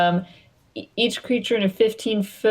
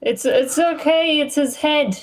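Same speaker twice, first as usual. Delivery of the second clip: consoling character; 9 semitones higher than usual. Acted. Character excusing Scorpio to the others, high consoling voice. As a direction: soothe in a small high-pitched voice.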